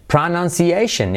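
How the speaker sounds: "Pronunciation" as PRA-NAN-SIEI-SHEN; every syllable stressed. Shown as a demonstration. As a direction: punch each syllable of "Pronunciation", slowly. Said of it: "como que se acentúan todas".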